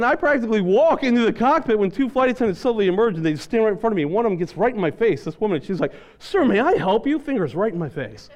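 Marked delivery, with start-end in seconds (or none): 6.2-7.2 high, slow challenge; imitated confronting attendant. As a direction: stop him in his tracks with false courtesy. Flight attendant confronts him in his face.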